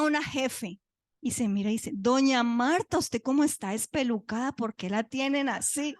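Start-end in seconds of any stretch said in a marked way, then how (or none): 1.9-5.9 acted scolding surprise; retold shocked nurse. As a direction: exclaim in mild mock dismay. Nurse chief shocked at her hair.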